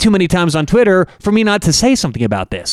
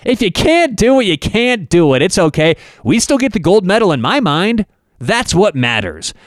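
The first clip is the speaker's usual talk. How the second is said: mock cheery athlete; 4 semitones higher than usual. Host imitating the athlete brushing off the loss, mock cheery. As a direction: play her as carefree and cheering. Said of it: "She's like".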